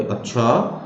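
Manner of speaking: drawn-up, insinuating rise; humiliating tone. Shown as a demonstration. Teacher demonstrating innuendo to students, humiliating tone. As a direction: make one word a veiled put-down. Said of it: "humiliating tone".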